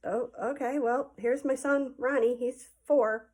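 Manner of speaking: lightly voiced hesitant parent; obliging dad. Dad presents the little brother at the door, lightly imitated. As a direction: imitate a dad politely playing along. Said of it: "my dad goes".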